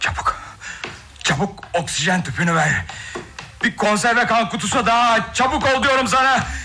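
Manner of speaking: panicked, frantic, very high, rising, urgent voice. A doctor gives urgent orders over a patient with no pulse, frantic. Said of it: "Çırpınıp durma".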